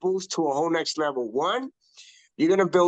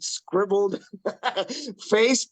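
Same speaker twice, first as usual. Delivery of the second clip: laughing; 4 semitones higher, slower than usual. Real, not acted. Laughs at own messy look.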